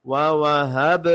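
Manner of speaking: ووہب with an echoing release on final b; bouncing ba. Shown as a demonstration. Teacher models qalqalah for learners, bounced b in ووہب. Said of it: "با پہ جھٹکا دیں".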